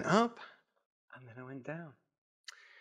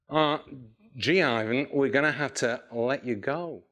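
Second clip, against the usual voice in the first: lower, hesitant mock American accent; 3 semitones lower than usual. Boss repeating a dismissal to an employee, lightly put-on American accent. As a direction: repeat the bad news as an awkward American boss. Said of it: "he was American".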